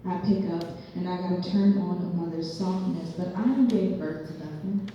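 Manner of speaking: lightly performed spoken-word poem; measured poetry reading with punched phrases; poem recital. Acted. Poet performing a monologue about her father, lightly dramatic recital.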